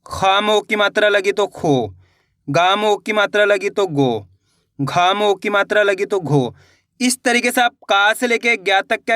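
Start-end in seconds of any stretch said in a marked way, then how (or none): 0.0-6.5 slow, measured drill of each letter; teacher drilling vowel signs for kids. Shown as a demonstration. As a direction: chant each example slowly like a teacher. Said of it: "जैसे कि".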